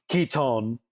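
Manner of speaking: Keaton with a long, full second syllable, "kee-TONE"; corrected accent. Shown as a demonstration. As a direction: say Keaton as "kee-TONE", drawing out the end. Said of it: "sorry, didn't put the accent".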